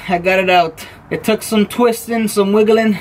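proud of the win; excited. Real, not acted. Triumphant after freeing the bolt.

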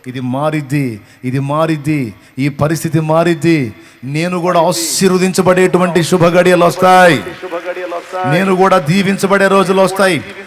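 loud, rising sermon climax; loud declaration of faith from the pulpit; full-force preaching. Acted.

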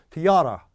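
토요타 as American "tuh-YO-ra"; American pronunciation. Retold or imitated. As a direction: reduce 토, stretch the stressed middle of 토요타. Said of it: "미국 사람들이 도요타를 어떻게 발음하냐면".

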